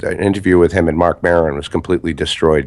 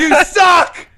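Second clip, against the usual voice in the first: laughing; 5 dB louder than usual. Pretend. Laughing insult at sign-off.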